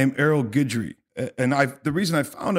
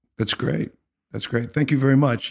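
mock unruffled, polite, very calm, even delivery. Retelling how a man answered them, imitating a calm reply. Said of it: "he just kind of very calmly was like".

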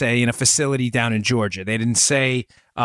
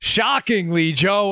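dripping with sarcasm, higher; 8 semitones higher than usual. Commenting on a news arrest to a co-host: dripping with sarcasm. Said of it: "I say this dripping with sarcasm".

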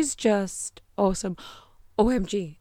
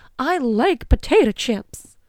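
loud, cartoonish delivery; 4 semitones higher, 5 dB louder than usual. Talking about snacks, the speaker slips into sounding like Goofy. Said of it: "Why did I sound like goofy from like Disney?".

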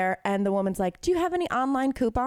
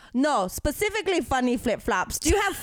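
put-on heavy, laid-on Eastern European accent; 4 semitones higher than usual. Retelling what a woman at the register said, in a thick Eastern European accent. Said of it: "has this like thick Eastern European accent".

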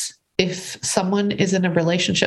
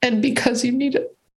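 tearful voice while crying, higher; 6 semitones higher than usual. Speaking to another speaker about a challenging journey, crying while talking. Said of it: "I apologize for crying".

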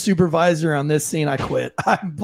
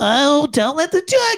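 put-on very slow, drawn-out, dorky nerd voice; 9 semitones higher than usual. Acting out what he would say, in a nerdy voice. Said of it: "the nerdy voice behind it".

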